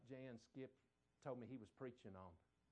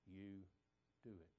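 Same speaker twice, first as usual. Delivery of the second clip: commanding; 7 semitones lower, 8 dB quieter than usual. Retold or imitated. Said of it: "in a commanding tense".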